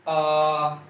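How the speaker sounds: a drawn-out आ sound, held long; long aa vowel. Shown as a demonstration. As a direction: say आ long and low. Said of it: "यानी ये बड़ा".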